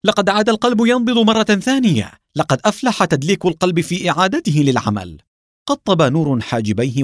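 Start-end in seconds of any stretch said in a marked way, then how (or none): 0.1-5.2 high, elated exclamation; joyful cry. A narrator's reading. Doctor reviving a patient's heart, high joyful cry. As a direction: cry out the good news, pitch soaring. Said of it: "وقد تهللت أساريره بالفرحة وهو يصيح".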